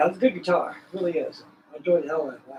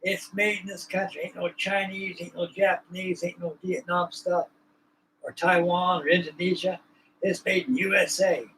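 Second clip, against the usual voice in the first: put-on boasting kid; 2 semitones higher, 3 dB quieter than usual. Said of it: "like a boasting kid".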